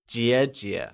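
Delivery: "jie jie" dipping on the first syllable; falling-rising tone. Shown as a demonstration. Teacher models the word for elder sister, "jie jie" in falling-rising tone. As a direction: dip and lift the first half of "jie jie". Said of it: "pronounced using the falling rising tone".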